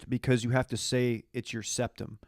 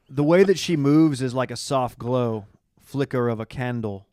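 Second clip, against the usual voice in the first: mock poetic recital; 5 dB louder than usual. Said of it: "That's poetry".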